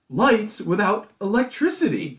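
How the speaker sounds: high, loud, slowed-down outburst; exasperated rant. Real, not acted. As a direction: boil over at people's stupidity. Ranting about stupid guests.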